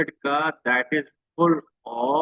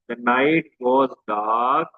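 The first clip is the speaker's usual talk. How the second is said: slow verse reading; 2 semitones lower, much slower than usual. Shown as a demonstration. Teacher reads line five to students, slow verse reading. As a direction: read the line slowly, like a poem. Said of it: "ये रही आपकी line five".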